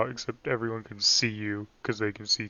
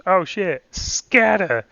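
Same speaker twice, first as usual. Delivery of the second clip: put-on old-time gangster movie accent, high and loud; thirties transatlantic voice; 8 semitones higher, 7 dB louder, much slower than usual. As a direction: bark it like a 1930s mobster. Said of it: "your nineteen fifties voice? ... transatlantic? ... Like thirties".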